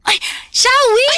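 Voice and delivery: high, slow, overjoyed cry of a name; gushing shout. Acted. Mother calling out to her comadre with put-on delight. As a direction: greet her like a long-lost friend.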